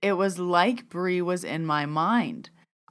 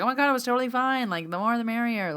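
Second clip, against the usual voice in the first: high, quick, breezy retelling; delighted reassurance; 6 semitones higher, faster than usual. Retold or imitated. Bree reassuring her afterwards, high delighted voice. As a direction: rush out the reassurance, pitched up. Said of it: "She loved it".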